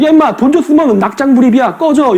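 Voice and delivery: a blunt, cocky don't-care retort; defiant brush-off. Retold or imitated. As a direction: wave them off like a bully. Park brushing off America.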